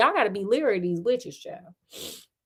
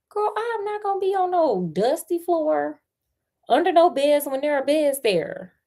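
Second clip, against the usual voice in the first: sassy disbelief; 6 semitones higher than usual. Real, not acted. Sassy aside rejecting the story.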